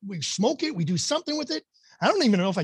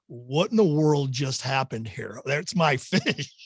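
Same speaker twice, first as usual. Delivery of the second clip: dumbfounded; 4 semitones lower, slower than usual. Retold or imitated. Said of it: "dumbfounded as I was".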